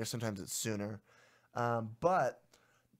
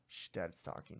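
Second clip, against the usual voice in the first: whispery, low shush; hushing; 6 semitones lower, 10 dB quieter than usual. Real, not acted. Dad hushing someone while he talks on the show, very softly. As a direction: quietly shush them mid-sentence.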